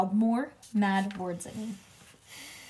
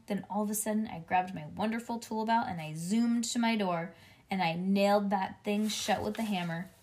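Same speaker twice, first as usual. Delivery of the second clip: ordinary delivery, nothing marked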